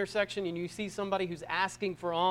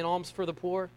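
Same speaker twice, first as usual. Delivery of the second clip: put-on English accent; 5 dB quieter than usual. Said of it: "in an English accent".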